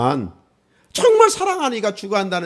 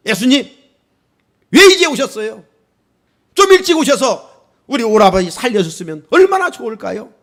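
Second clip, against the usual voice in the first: sulky complaint; 4 semitones higher, 4 dB louder than usual. Retold or imitated. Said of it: "큰 소리로 원망을 했어요".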